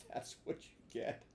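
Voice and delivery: hushed teasing whisper; softly whispered jab; whispered aside. A narrator's reading. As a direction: whisper it with a smirk. Narrator aside.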